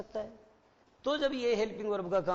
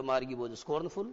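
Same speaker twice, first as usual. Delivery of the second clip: slow reading aloud; 5 semitones lower, much slower than usual. Shown as a demonstration. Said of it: "ये दो line मैंने पढ़ा दी थी".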